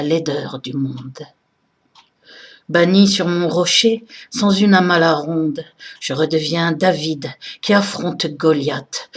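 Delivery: slow, solemn recital with deliberate phrasing; poem recitation. Acted. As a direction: recite the verses slowly and emphatically, pausing after each phrase. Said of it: "que je vais vous réciter de mémoire".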